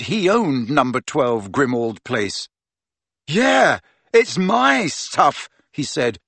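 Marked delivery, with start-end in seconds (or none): 3.3-5.5 dawning indignant yeah; surprised realization. A narrator's reading.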